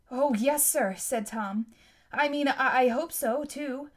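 eager. Acted. Eager boy answering flustered.

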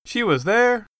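sharp high surprised question. Acted. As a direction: caught off guard by the news. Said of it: "sounding surprised".

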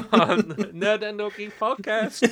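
hammed-up Brooklyn switchboard greeting; Brooklyn accent. Pretend secretary announcing the podcast, mock Brooklyn accent. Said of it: "like, a Brooklyn accent".

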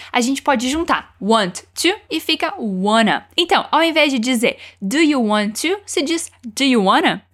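want to said full, then squeezed to wanna. Shown as a demonstration. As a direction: contrast careful want to with relaxed wanna. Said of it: "Detalhezinho de pronúncia aqui".

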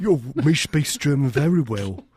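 hammed-up German accent; mock German accent. Comedian bragging in a silly German accent. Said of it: "your German accent's amazing".

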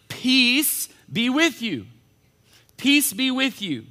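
high, drawn-out, measured greeting; lightly acted Jesus greeting. Acts out Jesus greeting the disciples.

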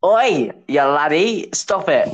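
slow, drawn-out mock Norfolk accent; badly faked Norfolk telling-off. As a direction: ham up a Norfolk county impression.

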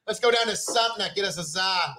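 bad New England accent, tossed off; half-hearted northeastern local; mock northeastern accent. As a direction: try a rough northeastern accent.

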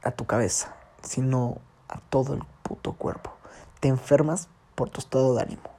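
whispered emphasis, breath only; hushed whisper driving the lesson home. Real, not acted. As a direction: lean in and whisper the point. Stressing the mother's lesson.

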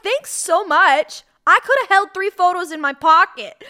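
mock gratitude in a shrill, crazed pitch; crazy voice. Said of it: "I'm getting into my crazy voice right now".

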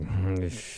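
imitated drunken slurred noise; drunk mumble. Drunk friend asked what he wants to eat, garbled mumble. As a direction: mumble an unintelligible drunk answer.

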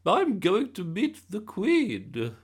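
high, loud, drawn-out announcement; excited gran, slow and shrieky high. A narrator's reading. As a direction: announce thrilling news at the top of your voice. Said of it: "never seen her so excited".

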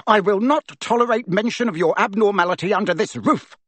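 high, loud sputtering rage; furious rant. A narrator's reading. Uncle Vernon raging at Harry, high and loud. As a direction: rage until you choke on it.

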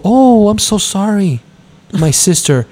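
slow, overdone mock sorrow; sarcastic apology. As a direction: lay the sarcasm on thick.

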